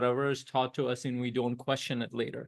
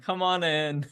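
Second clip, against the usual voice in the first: nonchalant; 5 semitones higher, slower than usual. Retold or imitated. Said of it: "very nonchalant".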